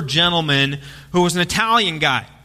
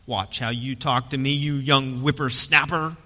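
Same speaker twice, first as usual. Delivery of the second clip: put-on gruff old man; 5 semitones lower, 4 dB quieter than usual. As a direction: scold him like a cranky old-timer. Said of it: "looked back at him like".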